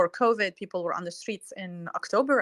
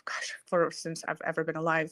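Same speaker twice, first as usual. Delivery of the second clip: whispered aside. Real, not acted. Aside while naming the parliament head.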